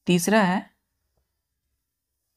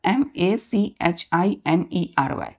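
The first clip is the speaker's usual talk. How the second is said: spelled out slowly; much slower than usual. Shown as a demonstration. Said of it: "जैसे मैंने आपसे कहा".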